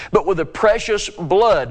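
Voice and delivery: "blood" set apart and leaned on; stress on blood. Real, not acted. Preacher reading scripture to listeners, stress on "blood". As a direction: put clear weight on "blood". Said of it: "notice the emphasis".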